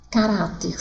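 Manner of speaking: Caráter with the stress on RÁ; stress on middle syllable. Shown as a demonstration. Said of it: "sílaba tônica ará".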